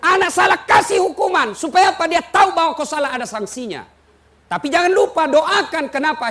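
high, loud exhortation; full-force preaching. Real, not acted. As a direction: drive the lesson home to the crowd.

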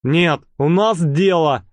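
slow, curt cut-off; mild gruff interruption; rough interruption. Acted. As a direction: shut him down bluntly. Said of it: "довольно грубо прервал Валет".

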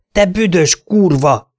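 lassú, magasabb, hangosabb ordítás; dühösen, lassan kiabálva. A narrator's reading. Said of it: "ordítottam". (lassan, magasan ordítva)

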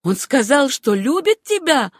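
high, loud, incredulous question; piercing with hatred. A narrator's reading. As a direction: demand it with a climbing, hateful voice. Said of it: "голос её стал пронзительным под действием".

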